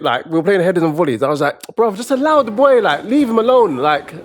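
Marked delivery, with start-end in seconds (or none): 1.7-3.8 higher-pitched plea to back off; mild retold protest. Telling a bully to leave a boy alone, mild protest. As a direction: step in for the boy, voice raised in pitch.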